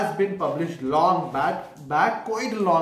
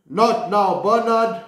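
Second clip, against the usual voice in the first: louder, curt not now; father shooing his son away; firm brush-off; 4 semitones higher, 6 dB louder than usual. Acted. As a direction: snap it off like a busy dad.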